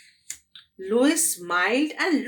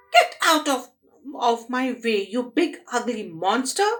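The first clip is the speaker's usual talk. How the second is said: 1 shouted command; 2 semitones higher than usual. Acted. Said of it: "shouted Lois".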